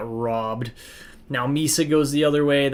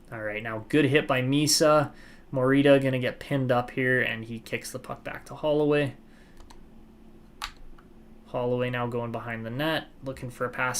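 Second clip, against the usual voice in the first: lively hockey play-by-play call; sports commentator narrating the rush. Acted. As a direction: call the action as it happens. Live play-by-play of the game.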